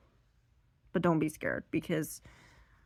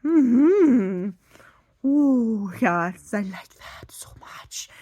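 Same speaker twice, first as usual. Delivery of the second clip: dog voice; 4 semitones higher, 8 dB louder, much slower than usual. Retold or imitated. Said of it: "the dog is like".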